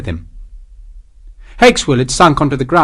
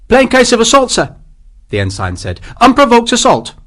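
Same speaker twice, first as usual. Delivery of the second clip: high, louder voice of a tipsy ensign; prim officious ensign, a bit drunk; slurring ensign; 11 semitones higher, 4 dB louder than usual. A narrator's reading. Ensign backing up the captain, high and officious. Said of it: "slurring his words".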